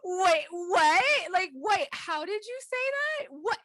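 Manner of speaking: high, gasping, can barely get words out; squeaky-high mock laughing fit; imitated dying laughter. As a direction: act out cracking up in disbelief. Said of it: "starts dying, like".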